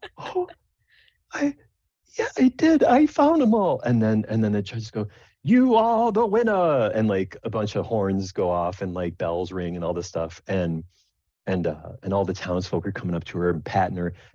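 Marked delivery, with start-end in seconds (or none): 0.2-3.8 tearful voice, much higher and louder. Telling of Sable's mushrooms shown to the judges, voicing Sable: teary. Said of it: "you see a tear well in the corner".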